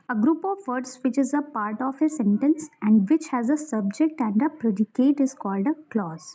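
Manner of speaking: reading a textbook definition slowly, word by word; slow dictation. Acted. Teacher dictating a grammar definition to students, slow and deliberate.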